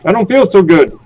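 put-on stereotypical grumpy old man; cranky old geezer complaining. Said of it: "my old man voice".

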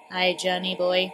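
a light, low put-on voice; generator voice. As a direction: greet Johnny as the generator. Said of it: "giving this dude the wrong voice".

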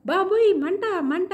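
high-pitched yelp of burning, lightly acted; mild mock cry. A narrator's reading. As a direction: narrate a startled cry, without full volume. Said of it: "మంట అని అరిసింది ఎవరు". (కాస్త నటిస్తూ మంట అని అరుపు)

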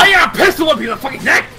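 fast aggressive yelling; rapid threat. Real, not acted. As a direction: spit it out fast.

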